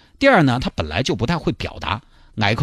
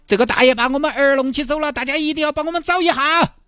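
lightly voiced worried parent, pitched up; pleading parent. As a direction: ask everyone for help, urgently. Parents plead in the group chat.

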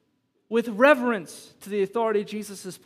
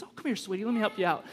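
mock sweet teacher voice; 3 dB quieter, faster than usual. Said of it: "you're just a little bit more patient".

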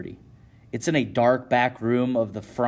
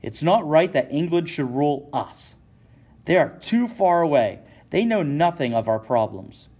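raised, heated rant, louder and higher; angry yelling; 5 semitones higher, 4 dB louder than usual. Acted. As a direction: keep shouting your outrage. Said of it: "Shea yells".

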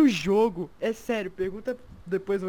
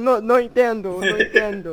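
put-on Spanish accent; 8 dB louder than usual. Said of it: "os caras".

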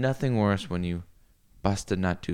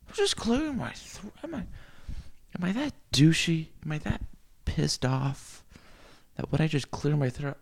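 mock indignant; 5 semitones higher than usual. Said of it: "And just like".

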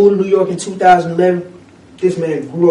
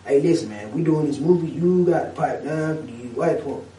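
hint of Samuel L. Jackson; 4 semitones lower, 6 dB quieter than usual. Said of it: "Samuel L. Jackson got in his ear".

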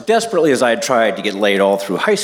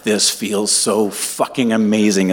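blissful; slower than usual. Retold or imitated. Acted thought during retold first time.

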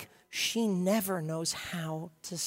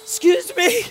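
high squeaky fluster; frazzled Martha; 11 dB louder than usual. Retold or imitated. Martha interrupted by a text, high flustered squeak. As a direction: squeal it like she's overwhelmed. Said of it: "She's freaking out".

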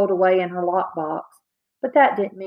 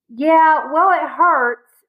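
sulky protest; 8 semitones higher, 5 dB louder, much slower than usual. Acted. Hurt boy snapping at sister.

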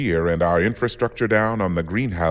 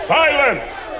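sharp, very high shout; barked order; 6 dB louder than usual. Acted. Admiral shouting the captains into silence. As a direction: cut the noise dead.

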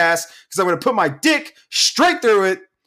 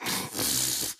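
soft, breathy sigh; weary sigh; 13 dB quieter than usual. Retold or imitated. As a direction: imitate their sighing reply. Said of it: "they were like".

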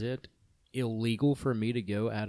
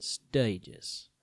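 Stages said with a lightly done Boston accent; 3 dB quieter than usual. Shown as a demonstration. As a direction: drawl Stages like a Boston local. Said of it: "you gotta say it with the accent".

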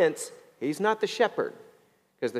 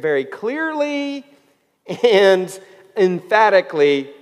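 CLEARLY stretched out, EMPHATICALLY hit loud; emphatic stress; 3 semitones higher, 7 dB louder than usual. Real, not acted. Preacher applying the verse to a listener, "clearly" lengthened, "emphatically" loud. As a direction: draw out "clearly", then punch "emphatically" hard. Drives key words home to congregation.

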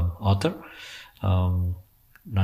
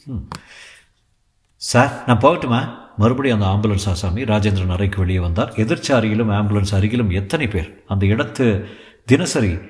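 measured, even storytelling read; story narration. A narrator's reading. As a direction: read the thriller steadily to listeners. Reads the novel aloud.

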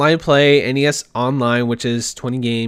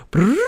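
imitated buzzing noise; 7 semitones higher than usual. Imitating Twitter feed blowing up.

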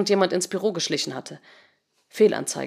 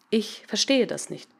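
slow, soft, measured statement; computer program, uncomprehending; 3 semitones higher, 5 dB quieter, slower than usual. Acted. Program answering in chat, slow impersonal puzzlement. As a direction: say it word by word, unemotionally.

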